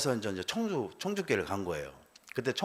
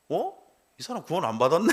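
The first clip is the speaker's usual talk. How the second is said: surprised; 5 semitones higher than usual. Retold or imitated. Wife realizing husband unsaved.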